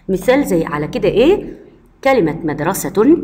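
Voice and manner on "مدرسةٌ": مدرسة with full case ending, madrasatun; connected form with t. Shown as a demonstration. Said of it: "وممكن أقول مدرسة إذا كنت هكمل كلامي".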